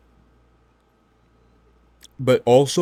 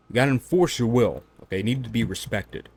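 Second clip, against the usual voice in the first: ordinary delivery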